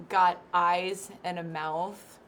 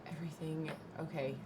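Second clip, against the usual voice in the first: whispered; 6 semitones lower, 13 dB quieter, faster than usual. Real, not acted. Awed reaction to all metal.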